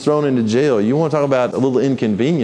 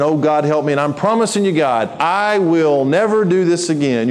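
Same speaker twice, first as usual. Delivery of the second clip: desperate bargaining prayer; 3 semitones higher than usual. Shown as a demonstration. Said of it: "If you're praying to God".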